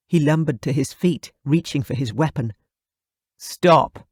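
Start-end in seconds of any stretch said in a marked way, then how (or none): 3.4-4.1 a short, louder barked command; sharp order. Acted. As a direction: snap the single word out as an order. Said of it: "I ordered".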